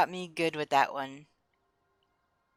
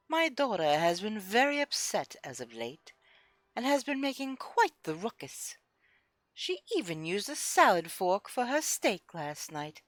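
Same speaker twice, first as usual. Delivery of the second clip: a hint of an ultra snobby lady reading her letter; snooty noblewoman, only lightly put on; hoity-toity voice; 2 semitones higher than usual. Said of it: "I gotta do this in the hoity-toity voice".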